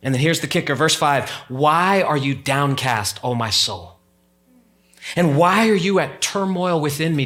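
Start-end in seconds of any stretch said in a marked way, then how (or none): 1.5-7.2 slow scripture reading. Acted. Reading the psalm slowly.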